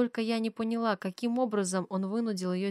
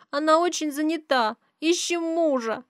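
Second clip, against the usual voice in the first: put-on high, childlike, guilty plea; a small girl owning up; little girl's voice; 9 semitones higher, 8 dB louder than usual. Little daughter confesses to her mother in a high child's voice.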